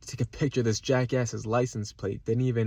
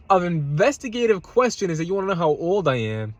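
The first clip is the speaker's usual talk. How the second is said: retold angry rant; 6 semitones higher than usual. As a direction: fire the questions back at him, replaying the argument. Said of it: "I guess kinda yelling".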